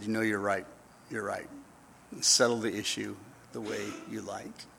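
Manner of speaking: soft, defeated admission; humbled. Retold or imitated. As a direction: give in quietly, head down. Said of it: "dropped his head and said".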